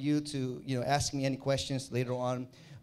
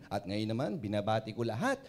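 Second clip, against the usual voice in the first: radio DJ greeting; 3 semitones lower than usual. Shown as a demonstration. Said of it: "ganitong ganito marinig nyo".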